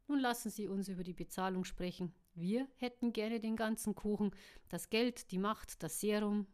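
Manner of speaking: villain Adrian mocking the buyers, dry sarcasm; sarcastic. Adrian spottet über die Bezahlung, sarkastisch. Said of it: "rief Adrian sarkastisch".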